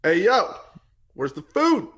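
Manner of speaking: high-pitched, badly faked street-slang dog; mock Black dog voice. Host voicing a black lab wanting food, high mock voice. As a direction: voice the dog in a high, hammed-up put-on voice. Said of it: "talk like a black person".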